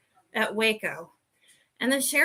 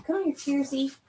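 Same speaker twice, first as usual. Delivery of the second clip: higher, softer call to the dog; pet talk; 4 semitones higher, 6 dB quieter than usual. Real, not acted. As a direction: sweetly beckon the puppy. Calling the dog.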